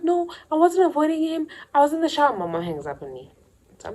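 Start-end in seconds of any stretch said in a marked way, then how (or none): 0.0-2.4 high, protesting daughter voice; defensive whine. Retold or imitated. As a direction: insist you weren't hiding. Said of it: "Then I'm like".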